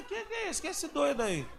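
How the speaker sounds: high, laughing retort; telling the church how he laughed at the stranger, high and amused; laughing disbelief. Retold or imitated. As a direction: crack up while asking what this guy is. Retelling a funny encounter.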